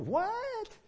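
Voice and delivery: long high drawn-out what; baffled what. Retold or imitated. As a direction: stretch out a stunned what.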